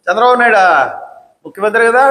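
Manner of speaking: mock "Chandrababu నాయుడా" falling, scornful; sarcastic jab at the chief minister. Shown as a demonstration. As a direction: sneer the name like an insult. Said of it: "ఇది వ్యంగ్యం".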